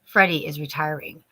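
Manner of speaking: low, slow, soft Freddy Krueger voice; mock creepy Freddy. Friend James teasing about Freddy, in a slow low creepy voice. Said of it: "James says".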